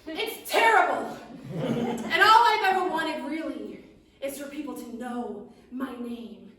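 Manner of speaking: high, loud, grumbling gnome. Acted. Gnome confesses to the witch he hates serving steaks, high and loud. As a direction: complain loudly like a tiny food-hating gnome. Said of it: "And he says".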